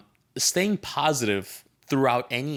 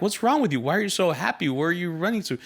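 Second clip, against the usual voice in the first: baffled parents; 6 semitones higher, faster than usual. Retold or imitated. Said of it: "the parents are like".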